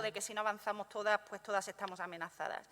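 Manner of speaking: "si no avanzamos todas" repeated softly, falling to "amenazadas"; quiet restatement. Real, not acted.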